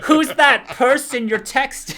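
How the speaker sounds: high, loud laughing mom voice; mock jealous mother, laughing; quoting Joan.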